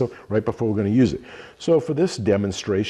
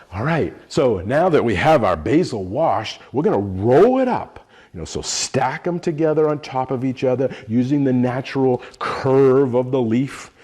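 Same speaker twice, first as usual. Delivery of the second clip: building anticipation; 3 semitones higher, 3 dB louder than usual. Shown as a demonstration. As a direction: build up to the step with emphasis. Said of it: "add slightly more anticipation when I do this step".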